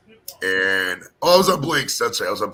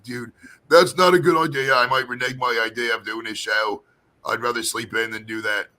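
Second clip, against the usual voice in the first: put-on British accent; 4 dB louder than usual. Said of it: "like, a London-ish British accent".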